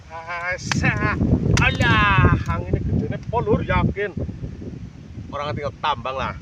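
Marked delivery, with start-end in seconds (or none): 1.6-4.1 loud cry against the wind; shouting over wind. Real, not acted. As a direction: call out over gusts. Strong wind, speaking into it.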